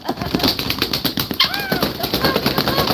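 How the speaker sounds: high, loud panicked don't fall; sudden fright as the hen flaps; high startled yelps of alarm; alarmed cry. Real, not acted. Hen flapping in water.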